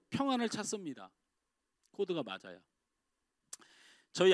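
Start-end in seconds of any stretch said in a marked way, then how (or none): 1.9-2.6 hushed, lowered repeat of 코드가 맞아야; quiet echo. Shown as a demonstration. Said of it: "우리는 코드가 맞아야".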